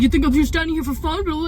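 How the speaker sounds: retold mocking outburst; mocking stranger. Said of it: "he starts, like, mocking me".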